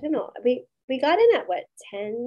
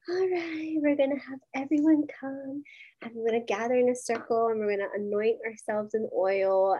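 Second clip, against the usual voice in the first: sultry voice. Retold or imitated. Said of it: "in her beautiful voice, sultry voice".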